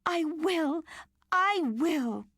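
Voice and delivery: high excited promise; eager child. A narrator's reading. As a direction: promise with delight.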